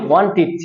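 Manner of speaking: ওয়ান্টেড ending in "-tit", i instead of e; corrected pronunciation. Shown as a demonstration. Teacher models the past tense of want for class, corrected pronunciation. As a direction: turn the e of ওয়ান্টেড into a short i. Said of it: "ওয়ান্টেড থেকে আমরা কি বলবো?".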